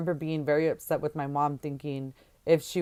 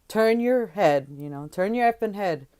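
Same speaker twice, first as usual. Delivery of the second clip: barked order; 4 semitones higher, 4 dB louder than usual. Retold or imitated. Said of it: "he would tell me".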